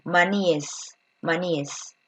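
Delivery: maníes repeated, ending es clear and fading; careful plural maníes. Shown as a demonstration. Teacher answering her own question with maníes, softly. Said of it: "cómo será la forma plural".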